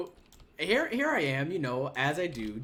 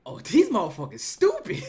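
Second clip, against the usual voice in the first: exasperated aside; 2 semitones higher, 6 dB louder than usual. Retold or imitated. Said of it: "I'm sitting here like".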